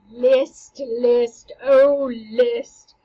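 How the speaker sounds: loud, pressing ghostly call; urgent plea. Acted. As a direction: call out to your son. Ghost pleads with Hamlet.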